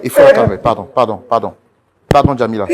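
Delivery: loud, rushed pleas for forgiveness, half laughing; frantic pleading. Real, not acted. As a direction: beg her urgently over the noise. L'animateur supplie fort. (supplication affolée, forte, mi-rieuse)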